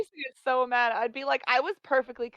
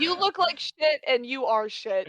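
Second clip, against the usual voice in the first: mean villager; 3 semitones lower than usual. Retold or imitated. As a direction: sneer it like a rude neighbor. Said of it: "they'd just be like".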